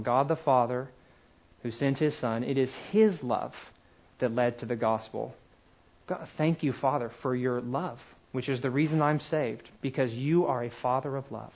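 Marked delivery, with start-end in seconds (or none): 6.1-11.5 prayer. Shown as a demonstration. Models a short prayer while teaching.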